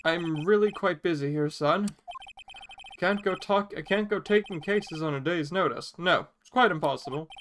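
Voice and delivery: put-on pompous old attorney greeting a visitor; Grossberg voice. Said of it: "Grossberg's voice".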